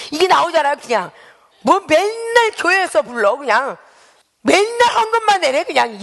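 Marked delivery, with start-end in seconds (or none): 1.6-6.0 whining complaints. Retold or imitated. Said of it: "불평불만 하고".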